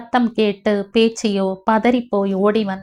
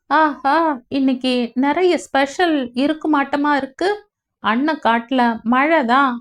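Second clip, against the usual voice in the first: cheerful delight; 5 semitones higher than usual. Acted. Pandi cheerfully smells special cooking.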